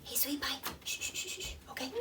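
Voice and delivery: quiet the little one gently, under your breath. Real, not acted. Mother hushes her baby while filming, softly. Mom hushing baby mid-video.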